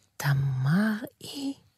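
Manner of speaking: hushed, soft, questioning half-whisper. Itamar answers a demon who just told him its name; half-whispered. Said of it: "לחש איתמר".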